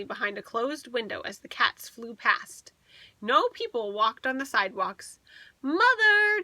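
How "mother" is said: high, loud call. A narrator's reading. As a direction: call out for mother. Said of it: "James called".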